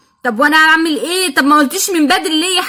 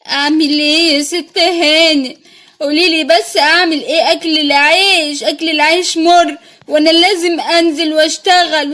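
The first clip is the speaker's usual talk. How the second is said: put-on pitiful old vendor woman. Old vendor pleading with the mother to buy her paints, lightly lowered pitiful voice.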